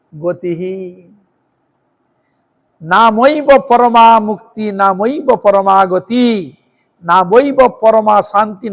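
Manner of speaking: slow measured chant of Sanskrit verse; drawn-out devotional recitation; scripture recitation. Acted. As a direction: intone each line like a sacred text.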